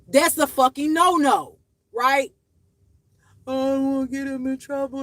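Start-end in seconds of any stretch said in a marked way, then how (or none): 3.5-5.0 higher, sing-song mock of her naive child voice; mock child's plea; mocking her younger self. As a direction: mimic your younger self with scorn. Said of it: "always caring about somebody else except myself".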